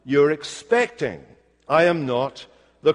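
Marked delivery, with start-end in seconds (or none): 0.0-1.2 slow, deliberate denial; quite clearly. Acted. John setting his questioners straight, quite clearly. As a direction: spell it out firmly, word by word. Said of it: "he's saying quite clearly".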